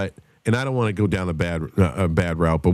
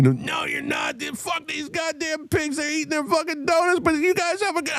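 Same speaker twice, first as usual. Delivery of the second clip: very high falsetto mock scream; imitated drunken screaming; 5 dB quieter than usual. Drummer defying his bandmate in front of cops, mock screaming. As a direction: play the belligerent wasted friend shrieking.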